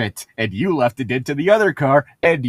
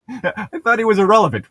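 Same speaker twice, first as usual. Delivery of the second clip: mocking laugh; 8 semitones higher than usual. Mocking a line while laughing.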